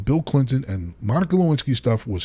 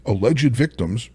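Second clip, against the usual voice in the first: sarcastic; slower than usual. Retold or imitated. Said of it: "using air quotes and saying".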